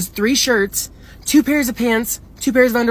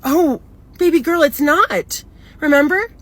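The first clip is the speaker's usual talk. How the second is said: higher, sugary talking-down imitation; mock condescension; 5 semitones higher, slower than usual. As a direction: mimic her correcting you like a small child. Retold patronizing correction about the house.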